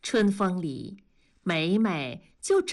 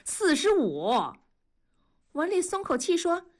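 exaggerated; 10 semitones higher than usual. A narrator's reading. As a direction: stretch each word for effect. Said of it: "梅梅就夸张地说".

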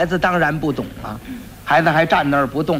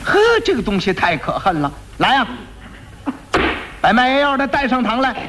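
raised commanding voice, a touch of anger; angry magistrate; 6 semitones higher than usual. Acted. County magistrate angrily ordering the quack be brought in, raised commanding voice. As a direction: summon the culprit sternly.

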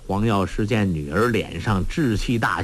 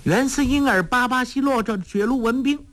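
gibberish shouting; 12 semitones higher than usual. Acted. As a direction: yell nonsense words like a wild incantation. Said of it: "黄蓉叫道".

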